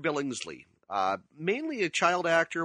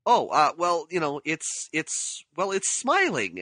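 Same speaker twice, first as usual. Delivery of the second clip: hesitant excuse; 3 semitones higher, 3 dB louder, slower than usual. Retold or imitated. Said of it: "Darren McGavin looks at it and he goes".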